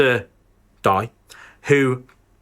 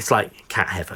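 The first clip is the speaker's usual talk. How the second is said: hushed, very soft half-whisper; 6 semitones lower, 5 dB quieter than usual. Explaining a film's plot to another speaker: half-whispering. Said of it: "I love how you're whispering it".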